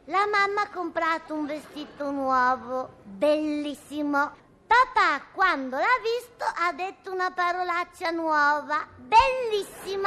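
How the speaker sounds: slow, sing-song recitation with long pauses; child reciting a poem. Acted. Little girl recites her poem about the family, slow sing-song recitation. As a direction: recite like a schoolgirl at a class show. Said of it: "Adesso dico la poesia".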